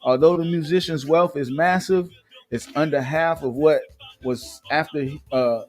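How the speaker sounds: reading out a gossip article; news read. Acted. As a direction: read it like an entertainment news report. Reads celebrity news article.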